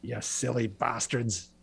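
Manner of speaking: a light, slow Irish brogue on the affection; mock Irish accent. Host teasing Edmonton listeners, lightly put-on Irish accent. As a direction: tease the city in a half-done Irish lilt. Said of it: "I think that was an Irish accent".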